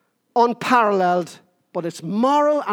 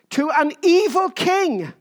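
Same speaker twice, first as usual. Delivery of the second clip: slow, higher squeak on evil king; accidental squeak; 5 semitones higher than usual. Real, not acted. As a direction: voice cracks up high on evil. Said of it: "I just squeaked there".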